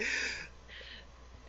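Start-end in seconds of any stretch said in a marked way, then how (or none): 0.0-0.1 amazed at yourself, laughing through the words; high, giggly disbelief; laughing surprise. Real, not acted. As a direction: burst out laughing mid-question. Laughing at her own accent slip.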